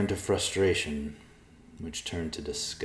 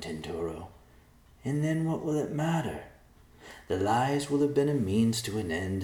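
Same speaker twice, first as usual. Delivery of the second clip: calming voice; 8 semitones higher than usual. A narrator's reading. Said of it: "in a calming voice".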